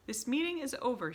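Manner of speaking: high, loud dismissal; witch shouting. A narrator's reading. Grand High Witch ending the meeting with a shout. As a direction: shout them out of the room. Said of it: "she shouted".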